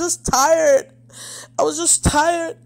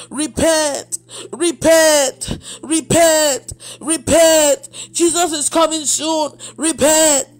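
street preacher shouting; 3 semitones higher, much slower than usual. Retold or imitated. Preacher in London calling crowds to repent, mock shout. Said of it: "She was just shouting".

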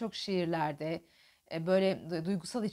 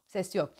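wrong loud breath demo. Shown as a demonstration. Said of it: "diye değil".

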